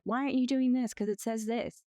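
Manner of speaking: mild mock yell. Lawyer wrongly confronting people over a contract, mild mock yell. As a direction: mimic someone confronting people, without really yelling. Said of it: "yell at people and be like".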